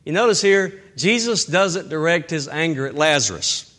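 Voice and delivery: ordinary talk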